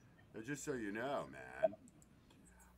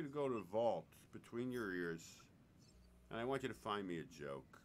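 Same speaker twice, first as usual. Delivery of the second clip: hushed whisper, pitch dropped lower; 8 semitones lower, 7 dB quieter than usual. Acted. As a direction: whisper it like a secret dare. Teasing guest to find a joke.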